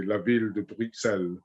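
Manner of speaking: La Ville de Bruxelles in a French accent, with no S at the end. Shown as a demonstration. Gardener repeats the French pronunciation for the host. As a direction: say it the French way, unhurried. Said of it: "with my French upbringing".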